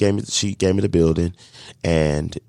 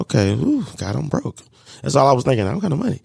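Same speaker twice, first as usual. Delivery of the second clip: mock panic; 7 semitones higher, faster than usual. Panicked self-quote about being broke.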